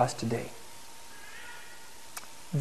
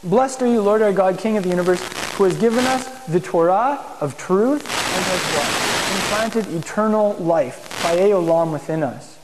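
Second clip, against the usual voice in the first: slow, lifted prayer recitation; liturgical blessing. Acted. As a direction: intone it like the synagogue blessing.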